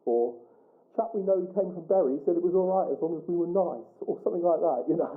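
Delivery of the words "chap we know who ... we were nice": mock Suffolk accent, a touch higher; lightly put-on Suffolk accent; Suffolk local accent. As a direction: pass yourself off as a Suffolk local. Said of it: "imitate my terrible accent".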